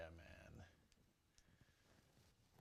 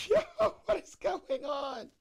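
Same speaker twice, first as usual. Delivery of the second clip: excited; 8 dB louder, slower than usual. Real, not acted. Reacting to a goal live.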